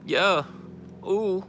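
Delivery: high, punchy rapper ad-libs; mock rap ad-lib yelps. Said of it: "dressed like a rapper".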